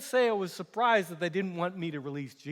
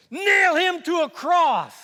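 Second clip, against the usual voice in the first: slow, drawn-out furious shout, much higher and louder; mob scream; 11 semitones higher, 10 dB louder, slower than usual. Acted. Crowd demands the cross with a slow furious shout. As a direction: stretch every word out in a roaring demand. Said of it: "they screamed".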